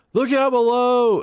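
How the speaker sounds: high, slow sing-song mock warning; mock announcer. Imitating the game warning his friend triggered, high and slow. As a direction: call it out like a cheesy game announcer, drawn out. Game voice calls out falling hazard.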